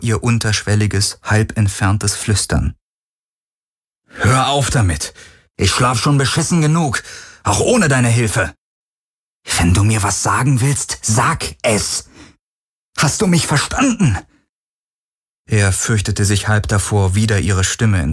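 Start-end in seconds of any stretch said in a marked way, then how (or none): 4.1-8.5 higher, exasperated rant; angry demand. Acted. Garland telling the Helix to stop, in an exasperated rant. 9.6-14.2 rising to a high, sharp challenge; demanding. Acted. Garland pressing the silent Helix, rising to a sharp challenge.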